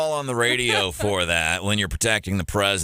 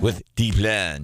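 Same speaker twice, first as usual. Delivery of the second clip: posh French; 4 semitones lower, slower than usual. Retold or imitated. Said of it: "She's trying to do that fancy French accent".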